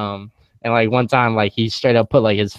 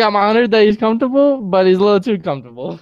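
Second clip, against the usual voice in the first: retold mother's reprimand; 8 semitones higher, 3 dB louder, faster than usual.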